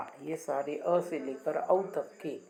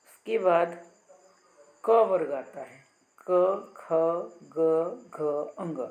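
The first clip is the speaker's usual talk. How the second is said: louder, projected recital of क ख ग घ; announcing the ka group; 6 dB louder than usual. Shown as a demonstration. Teacher calls out the ka-group letters for students. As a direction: call the letters out to the class. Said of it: "तो आप उच्चारण करके देख लीजिए".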